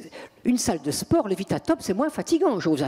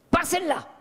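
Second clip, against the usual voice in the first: possessed shriek; 9 semitones higher than usual. Retold or imitated. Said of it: "elle change de voix, elle se met à hurler".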